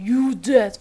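mock British accent. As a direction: imitate the British-accented game voice, badly. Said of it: "İngiliz aksanıyla konuşmalar çok kötü".

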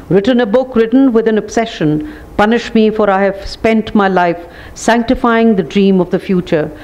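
a lightly declaimed poem reading, punchy refrains. Acted. Moderator reading a poem to the panel, declaiming. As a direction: read it as a measured recital, leaning on each punish me. Reads Kishwar Nahid's poem aloud.

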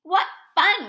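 high, loud burst of delight; gleeful whoop. A narrator's reading. Little Bird joins Bear making a mess, gleeful whoop. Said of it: "whooped Little Bird".

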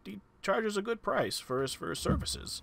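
hint of a hesitant old-timer; elderly townsman Darren. Darren defends the town dentist's prices, lightly voiced old man.

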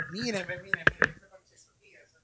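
very faint, distant voice; away from the mic. Real, not acted. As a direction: talk from across the room, barely picked up. Streamer steps away to check door.

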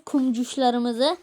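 slowly savoured Kumcuşlarımızı; slow motion. Shown as a demonstration. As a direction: draw out Kumcuşlarımızı fondly. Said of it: "tatlı bir ad bulmam gerekiyor".

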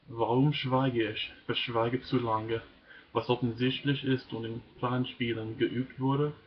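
measured, earnest poem reading; deliberate recital of a political poem; poem recitation. Acted. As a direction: read it out phrase by phrase, pausing at line breaks. Reads a poem aloud.

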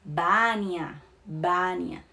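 Bania with a B at the start; B sound in Bania. Shown as a demonstration. Teacher repeating Bania slowly for students, B sound. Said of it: "né, seria B".

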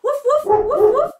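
high, quick pretend barks; high-pitched woofs for kids; playful dog barking. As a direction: bark back like a friendly dog. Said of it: "Let's woof back".

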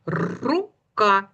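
Рука with a long rolled Р; first sound stressed. Shown as a demonstration. Teacher helping children hear the first sound, rolled out. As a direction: roll out the Р that begins Рука. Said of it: "Перший звук в слові рука".

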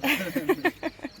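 sudden high-pitched laugh; high burst of laughter. Real, not acted. Laughing at own joke.

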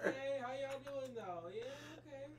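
dragon voice. Acted. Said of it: "Eric to be the voice of the dragon".

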